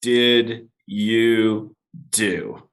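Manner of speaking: slow, drawn-out "What did you do"; stunned wife's demand. Retold or imitated. Angry wife confronting husband about hidden debt, slow disbelieving demand. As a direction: drag each word out in disbelief. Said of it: "she was just like".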